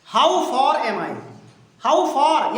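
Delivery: spaced out word by word; teacher drilling the question slowly for the class; slow model reading. Shown as a demonstration. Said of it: "teacher models the question slowly".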